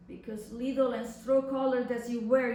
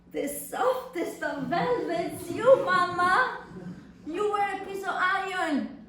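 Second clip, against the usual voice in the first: mocking laugh; 6 semitones higher, 3 dB louder than usual. Mocks letter's praise of mother.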